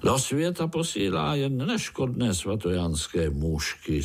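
usual speaking voice

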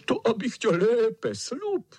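put-on wolf chasing the girl, yelling high and loud; shouting wolf. A narrator's reading. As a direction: yell it as the wolf pounces. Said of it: "křičel vlk".

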